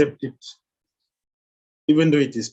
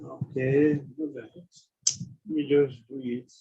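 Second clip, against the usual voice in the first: mock reluctant, trailing into softer words; grudging consent; 2 semitones lower, 3 dB quieter, slower than usual. Preacher acting a guest agreeing to stay, mildly grudging. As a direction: give in grudgingly, lightly acted. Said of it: "didn't stay with grudge".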